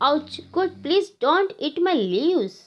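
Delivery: pleading. Acted. Babul tree begs goats not to eat its leaves, pleading. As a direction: protest mildly in pain, begging them to stop.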